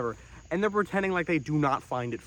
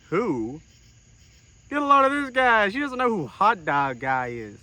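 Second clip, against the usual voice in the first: smug retort; 4 semitones higher, 3 dB louder than usual. Retold or imitated. Smug quote of himself to lady.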